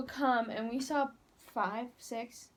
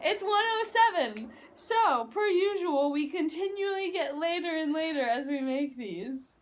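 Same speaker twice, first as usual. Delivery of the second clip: excited; 5 semitones higher, 4 dB louder than usual. Real, not acted. Excited late-night time check.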